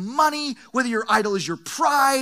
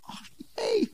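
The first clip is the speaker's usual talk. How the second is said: mock cheer; 12 semitones higher, 7 dB quieter than usual. Pastor mocks excited reaction.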